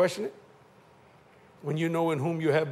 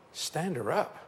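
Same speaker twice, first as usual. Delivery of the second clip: quieter, rising disbelief; incredulous echo; 4 dB quieter, slower than usual. Retold or imitated. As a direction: repeat it as if you can't believe it. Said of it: "incredulous echo".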